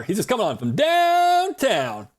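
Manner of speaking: a sudden shouty outburst about a zombie. Real, not acted. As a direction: yell it across the room.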